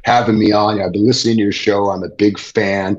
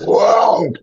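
higher, exclaimed whoa; sudden high exclamation; startled whoa; 10 semitones higher than usual. Retold or imitated. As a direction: relive the moment of the hit. Retelling the big hit.

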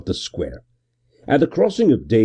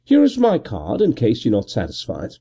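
breezy gentleman; 3 semitones higher than usual. Acted. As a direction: toss it off lightly, amused. Gervase voiced.

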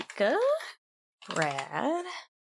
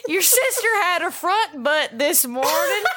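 put-on Southern accent. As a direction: read the letter in a Southern accent, laughing through it. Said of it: "I gotta do some of my southern accent".

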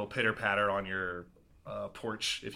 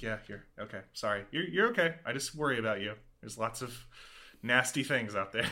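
reassuring mom. Retold or imitated. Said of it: "your mom's like".

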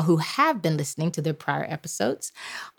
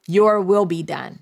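slow call to repeat. Shown as a demonstration. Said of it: "I need for you to say".

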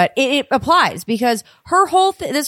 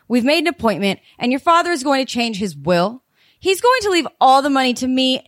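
polite but angry; 2 semitones higher than usual. Acted. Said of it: "It's so weirdly polite and so angry".

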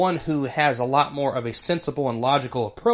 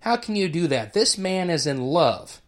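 emotional outburst; 3 semitones higher than usual. Retold or imitated. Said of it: "He reacts out of emotion and says".

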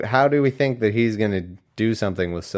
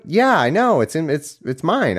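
higher-pitched, impatient homeowner; acted exasperation; 6 semitones higher than usual. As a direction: insist you already know. Acts annoyed homeowner.

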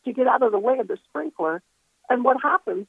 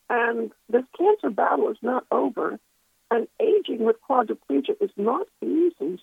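earnest plea to Jesus, with pauses; recounting a heartfelt prayer, lifting on the pleas; retold prayer. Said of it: "I was just praying".

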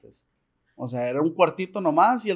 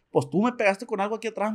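papá enojado; 5 semitones higher than usual. Retold or imitated. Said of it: "bien enojado".

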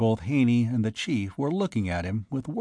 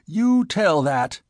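slow, loud, high threat; shrill, drawn-out fury; shrill panting; 7 semitones higher, 5 dB louder, slower than usual. A narrator's reading. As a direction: force it out shrilly, word by word. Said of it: "he panted shrilly".

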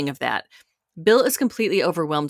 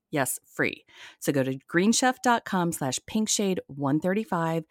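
upbeat sponsor read, selling it; 3 dB quieter than usual. Acted. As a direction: pitch the meal kit like a host ad. Reads a sponsor ad.

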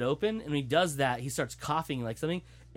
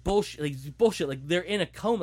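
loud, higher-pitched retold protest; indignant disbelief; 6 semitones higher, 4 dB louder than usual. Dad rejecting the claim that twins are lying, indignant disbelief. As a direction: throw out an exasperated rebuttal as the father.

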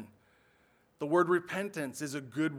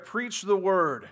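"Preach the word." slow and loud, each word hit; exclaimed command; 3 semitones higher, 6 dB louder, much slower than usual. Shown as a demonstration. Pastor reading the verse to the congregation, slow and emphatic. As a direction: read it with the exclamation point. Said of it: "Mine has an exclamation point there".

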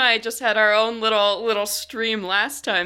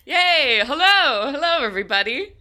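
excited; 7 semitones higher, 3 dB louder than usual. Real, not acted. Cheerful show opening greeting.

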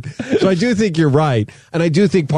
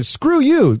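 mimicking angry son; 13 semitones higher than usual. Dad quoting angry son.

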